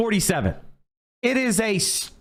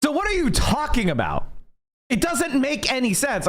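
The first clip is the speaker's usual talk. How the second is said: heated, pitched up, exasperated rant; worked-up rant, voice climbing; fired up; 4 semitones higher than usual. Real, not acted. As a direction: let the outrage push the pitch up. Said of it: "sorry to get so fired up".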